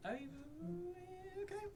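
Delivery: high, soft, coy voice.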